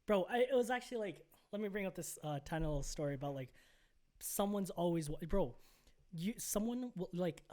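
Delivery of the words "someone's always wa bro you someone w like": halting, stumbling over words; stuttering. Real, not acted. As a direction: stammer and restart the sentence. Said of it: "I'm stuttering because".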